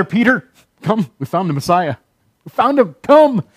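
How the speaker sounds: eager, rising call to a brother; excited call. Retold or imitated. Andrew calling his brother to come see the Messiah, excited.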